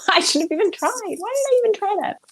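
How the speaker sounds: embarrassed laughing after a bad accent. Real, not acted. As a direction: laugh at your own failed attempt. Laughing at her own bad accent.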